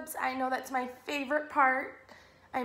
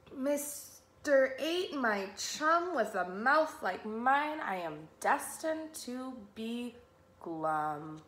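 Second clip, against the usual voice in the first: mildly glum fish; slower than usual. Acted. Pout-pout fish explaining himself to Mister Eight, mildly glum. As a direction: sink onto the final word, resigned. Fish answers octopus in story.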